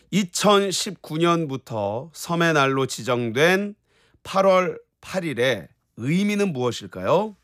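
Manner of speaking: slow, measured presenter read; quiz question read. Real, not acted. Host setting a radio quiz question, measured presenter voice. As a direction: read it out slowly and clearly for listeners.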